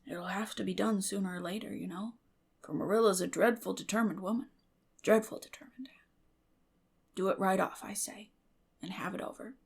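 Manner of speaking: put-on soft, shy old man's murmur; a timid old man coaxing quietly; Matthew, hushed.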